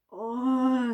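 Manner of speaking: high, light groan of "oh". A narrator's reading. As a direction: groan as a group of passengers. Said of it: "groaned the passengers".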